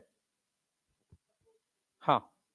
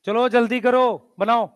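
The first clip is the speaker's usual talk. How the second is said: louder, drawn-out call to get moving; hurrying the class; 3 semitones higher, 4 dB louder, slower than usual. Real, not acted. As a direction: push the students to hurry, raised voice. Teacher hurrying the class along. (जल्दी मचाते हुए ऊँची आवाज़ में)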